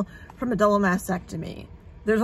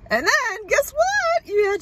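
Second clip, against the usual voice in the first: sarcastic; 12 semitones higher than usual. Real, not acted. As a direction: stretch it out mockingly. Sarcastic life lesson rant.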